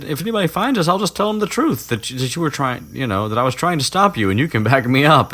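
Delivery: high-pitched, self-righteous rattle; mock insistent pleading. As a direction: argue your case in a squeaky imitation. Hermione arguing, voiced high.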